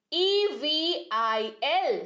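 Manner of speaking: letters spelled slowly one by one; slow spelling. Shown as a demonstration. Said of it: "इविल".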